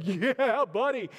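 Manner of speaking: pumped-up dad. Retold or imitated. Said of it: "He starts getting so pumped up".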